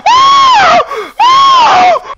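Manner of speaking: squeaky high shouted woo; very high squeal. Acted. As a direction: squeal it as high as you can. Squealing after request.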